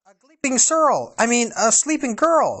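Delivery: high, loud muddled dwarf voice; flustered dwarf. Acted. Doc fumbles his words over the sleeping girl.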